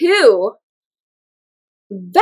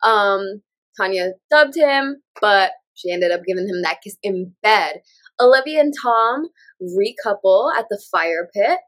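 sick, stuffy voice; talking through a cold; flu. Real, not acted. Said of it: "my sexy sick voice".

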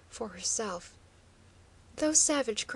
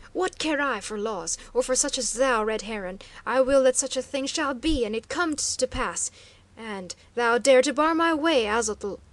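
loud, angry shouting challenge; furious defiance; 8 dB louder than usual. A narrator's reading. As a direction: rage at the guard captain. Chief defies the guard, furious.

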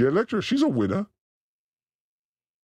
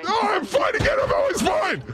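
mock recovery; 14 semitones higher than usual. Recovering from a cursing outburst.

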